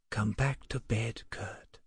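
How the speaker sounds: soft, hushed plea to come to bed; whispered plea. A narrator's reading. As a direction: murmur it so the child won't wake. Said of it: "she whispered".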